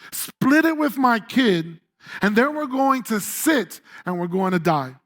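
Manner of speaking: starts as a mild outburst, fading into giving up; a touch of anger that sinks into defeat; going off on him. Retold or imitated. The widow venting at Elijah, mild anger fading to resignation. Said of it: "She goes off on him".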